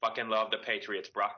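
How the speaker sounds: bad put-on Boston accent; thick Boston accent, hammed up. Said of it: "that was my bad Boston accent".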